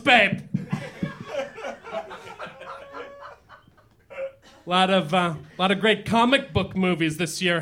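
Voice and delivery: put-on hammy old-school lounge comic voice; old borscht belt comic. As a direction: work the room like a cheesy nightclub comic. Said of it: "acerbic comedian".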